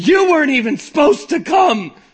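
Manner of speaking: furious, loud, high-pitched angry shout. Recounting pointing a finger at a best friend in the front seat, retelling a shout. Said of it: "I shout the first thing".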